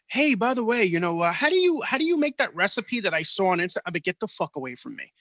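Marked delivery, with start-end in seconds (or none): 0.1-3.8 mock clueless gym-goer. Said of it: "would come up like".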